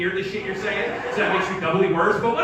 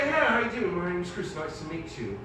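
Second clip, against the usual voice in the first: put-on English accent. Comedian walking up to a female in college, English accent. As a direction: introduce yourself suavely in an English accent. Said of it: "that English accent".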